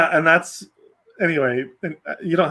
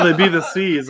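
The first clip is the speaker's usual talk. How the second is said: laughing. Pretend. Repeats pirate punchline laughing.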